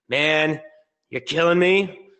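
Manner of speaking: rising exasperation, pitch climbing high; man at the end of his rope; exasperated. Retold or imitated. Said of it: "my blood is starting to boil".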